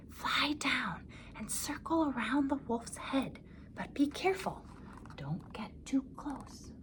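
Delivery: slow, soft whisper. A narrator's reading. Peter instructing the bird, hushed whisper. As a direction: breathe it secretly. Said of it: "whispered to the bird".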